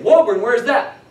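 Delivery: loud confused echo of the name; Boston cabbie who can't place Woburn; puzzled cab driver. Retold or imitated. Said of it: "And he said".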